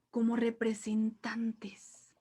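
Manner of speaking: "como representantes" whispered in awe; awed whisper. Shown as a demonstration. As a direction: breathe "como representantes" in wonder.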